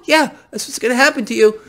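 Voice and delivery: high, loud, gloating villain voice; mocking evil banker cackling at the public; Fed villain impression. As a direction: sneer it like a cartoon central banker. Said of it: "Fed Dali here".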